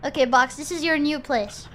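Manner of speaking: normal talking voice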